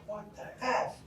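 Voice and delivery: high, testing mock exclamation; said out loud. After the crash, testing the reaction out loud, high mock outburst. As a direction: try the swear aloud to see how it feels. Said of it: "So I said out loud".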